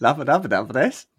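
giggling through the name; laughing as you say it. Real, not acted. Mangling the name while laughing.

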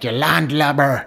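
loud, high, laughing tease; laughing mock insult at a friend; mock teasing jab. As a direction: rib her with a laugh. Teasing friend's imagined thought.

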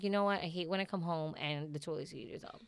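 toned-down, polite complaint; retold calm request. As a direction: re-enact calmly asking him after the yelling. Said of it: "I had a conversation".

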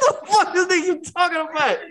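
high-pitched retold question; laughing mock disbelief. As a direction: ask it while cracking up.

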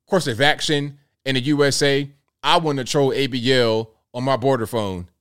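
mock official questioning.

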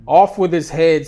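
high, loud royal scream; screaming queen. Acted. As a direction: shout it like a furious queen. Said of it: "screams the queen".

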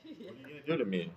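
fast, high, mocking whine; mock indignant. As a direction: needle her with fake outrage.

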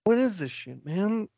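high-pitched baffled whine; mock bewilderment. Podcaster as ghost Alfred lost in limbo, mock bewildered. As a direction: wail it in comic confusion, pitched high.

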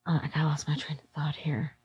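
very soft, almost whispered; hushed aside. Real, not acted. Guest losing her train of thought, hushed aside. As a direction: drop to a near-whisper, as if to yourself.

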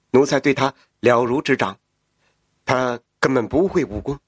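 bow and report to your master; fawning official voice. Acted. He Shen reporting to the emperor.

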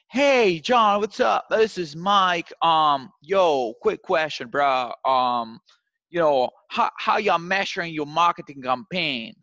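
loud, high, bro-ish sales caller; exaggerated young hustler. Shown as a demonstration. Young rep cold-calling a VP, loud and bro-ish. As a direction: overdo the casual young salesman. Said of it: "of course, exaggerating".

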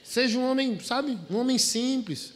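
loud, high, fervent pulpit exhortation; preaching at full force. Acted. Pastor urging older husbands from the pulpit, loud fervent preaching. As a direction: preach it out, pushing every phrase.

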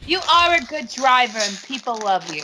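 eating crackers while talking; words round a mouthful of chips; mouth full. Real, not acted. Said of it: "What are you eating?".

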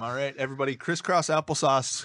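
put-on gather the kids on the rug; kindergarten teacher voice. Announcing lecture, crisscross applesauce to listeners.

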